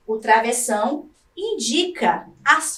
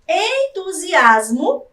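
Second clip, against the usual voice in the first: slow, higher and louder "entusiasmo" with a rising end; enthusiasm; 4 semitones higher, 4 dB louder, much slower than usual. Shown as a demonstration. Teacher showing pupils what enthusiasm sounds like, stretched and bright. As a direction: stretch "entusiasmo" out with eager lift. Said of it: "demonstrar emoções como entusiasmo".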